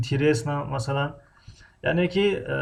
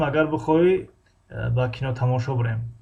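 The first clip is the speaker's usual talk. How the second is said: Tajik colloquial; 3 semitones lower than usual. Shown as a demonstration. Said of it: "به لهجه اگر بگم".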